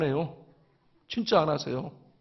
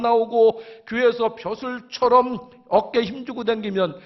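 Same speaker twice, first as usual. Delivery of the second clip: higher, sustained preaching push; forceful preaching; 4 semitones higher than usual. Real, not acted. Preacher rebuking elders who skip dawn service, forceful and insistent. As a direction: press each phrase on the congregation.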